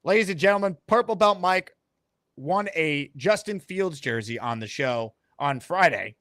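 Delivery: slow, drawn-out ceremonial announcement; ring-announcer style hype with measured pauses; show announcer. Pretend. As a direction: build up a big live unveiling. Hypes a live prize unveiling.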